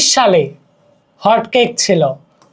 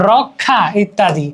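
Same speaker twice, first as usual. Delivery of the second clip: slow demo; 2 semitones lower, slower than usual. Shown as a demonstration. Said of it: "মানে বেশিরভাগ কি".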